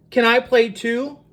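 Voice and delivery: high, hopeful rising question; little bird. Acted. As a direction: ask to join in like a small bird. Little bird asks to play.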